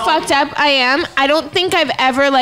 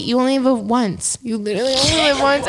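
slurring; 2 semitones lower than usual. Real, not acted. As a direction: slur it tipsy. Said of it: "I'm slurring".

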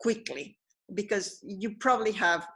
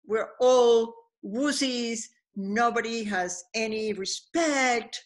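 frustrated; slower than usual. Retold or imitated. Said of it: "he gets more and more frustrated".

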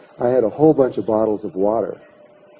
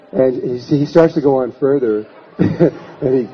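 laughing; 2 semitones higher, 3 dB louder than usual. Real, not acted. Laughing at the man's exposure.

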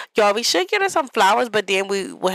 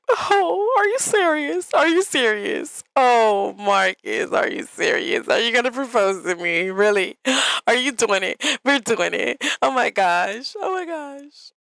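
excited Barbie; 2 semitones higher than usual. Retold or imitated. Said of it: "It's like".

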